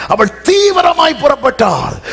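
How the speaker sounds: high, loud proclamation; preaching shout. Real, not acted. Preacher emphasis.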